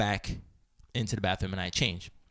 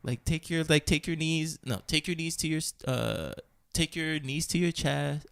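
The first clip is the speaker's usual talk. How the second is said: slightly soft, higher instructor voice; tranquil voice, imitated; 4 semitones higher, 4 dB quieter than usual. Yoga teacher guiding the class, imitated tranquil voice. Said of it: "very tranquil voice".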